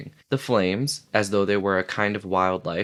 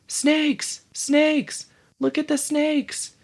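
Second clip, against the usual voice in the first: put-on very high child's scream; 3 dB louder, much slower than usual. A little boy screams at the others in terror, very high. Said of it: "The little boy screamed at them".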